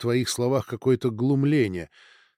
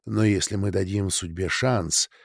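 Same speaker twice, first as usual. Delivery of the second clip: soothing gentle words; 3 semitones lower than usual. Acted. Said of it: "нашёптывая успокаивающие и ласковые слова".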